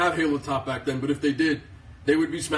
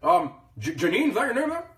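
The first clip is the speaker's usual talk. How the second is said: a lightly voiced Obama, pitched up; playful take on a president's cadence; Barack Obama impression; 5 semitones higher than usual. Vlogger jokes she sounds like Obama, light mock presidential voice. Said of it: "I sound like Obama".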